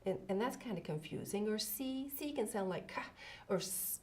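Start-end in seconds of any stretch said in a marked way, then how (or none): 2.2-4.0 hard "ka", then a hissed "s"; sounding out words. Shown as a demonstration. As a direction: make "s" a soft snake hiss. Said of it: "like a snake".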